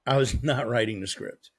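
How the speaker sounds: amused restatement, stress on "was"; laughing correction. Real, not acted. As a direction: laugh it off mid-sentence.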